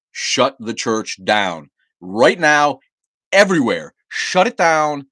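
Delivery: loud, slow, hammered demand; angry demand. Real, not acted. Streamer demanding churches close, slow furious shout. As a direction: pound out every word like an order.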